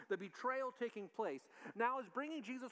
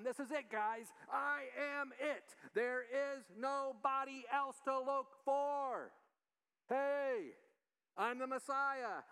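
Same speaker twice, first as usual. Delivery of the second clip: Jesus urging the disciples to stop waiting, raised voice; impassioned declaration; 7 semitones higher, slower than usual. Retold or imitated. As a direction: raise your voice, make them finally get it.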